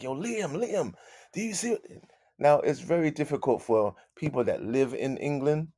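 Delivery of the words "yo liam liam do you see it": retold excitement. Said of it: "I was like".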